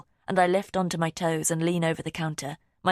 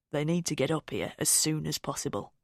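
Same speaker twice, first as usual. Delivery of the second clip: level controlled insistence; calm but firm. Acted. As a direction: keep a lid on the fear. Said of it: "Dad's voice is calm".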